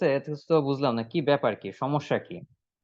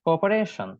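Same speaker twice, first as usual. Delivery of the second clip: full sentence model; much slower than usual. Shown as a demonstration. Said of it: "এইটাকে বলবেন ফুল সেন্টেন্সটা".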